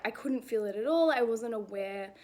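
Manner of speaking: breathless after a run; winded, catching breath between phrases. Real, not acted. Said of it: "I'm, like, out of breath".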